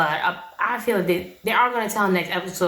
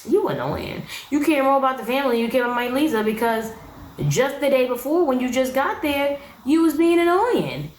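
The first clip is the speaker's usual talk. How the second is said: exasperated rant; 6 semitones higher than usual. Retold or imitated. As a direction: build it into a fed-up telling-off. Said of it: "I was just like".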